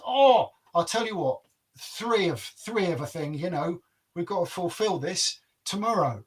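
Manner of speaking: lightly voiced bargaining giant; the giant sets a sly challenge; giant's voice. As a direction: giant bargains with the king's son.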